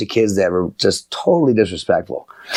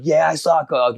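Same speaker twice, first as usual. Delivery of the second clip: put-on camp kids answering; 7 semitones higher than usual. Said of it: "And I'm like".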